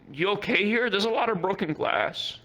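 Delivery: concerned question. Retold or imitated. Acts out timid question to shopkeeper.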